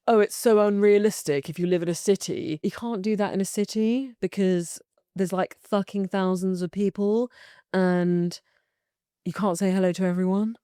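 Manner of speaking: put-on snobby London city voice; lightly snobbish London accent. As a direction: play a snooty Londoner objecting. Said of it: "like, a snobby London accent".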